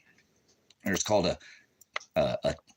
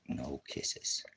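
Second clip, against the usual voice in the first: very soft, half-whispered no; hushed warning; 4 semitones lower, 10 dB quieter than usual. Real, not acted. Telling the dog no kisses, hushed warning. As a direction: warn under your breath, low and soft.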